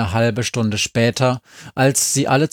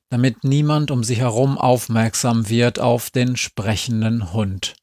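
plain reading voice

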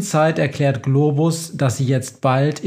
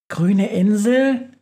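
confused; 7 semitones higher, slower than usual. Acted. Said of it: "Fragt Schussel verwirrt".

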